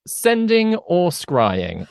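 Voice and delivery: slow, drawn-out dramatic question. Pretend. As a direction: stretch it out like a game show.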